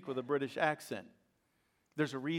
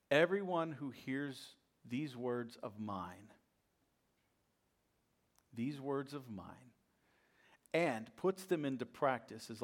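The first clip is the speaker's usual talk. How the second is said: scripture reading. Acted. Reads the words of Jesus.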